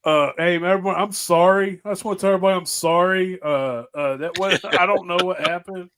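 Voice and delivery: mock hungover apology to everyone; sheepish apology. Friend imitating the hungover morning-after apology, sheepish. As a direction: grovel a bit, lightly mocking. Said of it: "the next morning, like".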